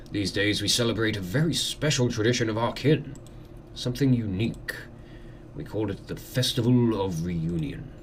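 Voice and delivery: lightly voiced courteous lord; manor host. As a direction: welcome a guest with formal hospitality.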